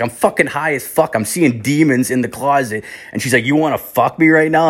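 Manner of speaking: mock-indignant comeback; indignant refusal. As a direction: imitate an indignant girlfriend turning you down. Girlfriend indignantly refuses in retold quarrel.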